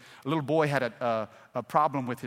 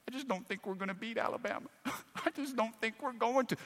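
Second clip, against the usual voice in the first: softer and higher, a hint of a worried girl; daughter's voice; 5 semitones higher, 9 dB quieter than usual. Preacher quotes his daughter at the game, lightly voiced.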